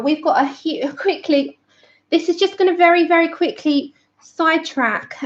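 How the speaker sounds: breathless after chasing a wasp; panting between words; out of breath. Real, not acted. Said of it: "I'm out of breath".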